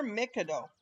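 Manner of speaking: Mikado as "MICK-uh-doh"; own pronunciation. Real, not acted. Player offering their own version, Mikado as MICK-uh-doh. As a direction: say Mikado with stress on the first syllable, MICK. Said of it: "I pronounce it Mikado".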